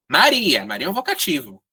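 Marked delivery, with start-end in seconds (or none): 0.1-0.7 raised, louder demo of a shouted name; mild demonstration shout, higher pitched; mock calling out. Shown as a demonstration. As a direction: call out the name as an example. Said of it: "gritou João".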